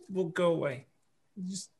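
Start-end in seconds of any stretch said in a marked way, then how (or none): 1.5-1.7 urgent whisper. Acted. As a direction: hiss him along quietly. Hushing ghost to follow.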